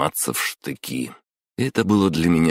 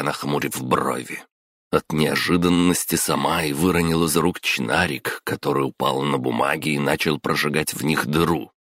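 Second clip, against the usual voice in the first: usual speaking voice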